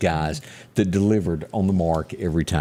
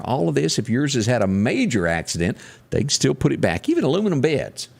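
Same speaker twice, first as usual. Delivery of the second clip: radio ad read; 2 semitones higher than usual. Acted. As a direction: sell the body shop to the listeners. Reads a sponsor ad.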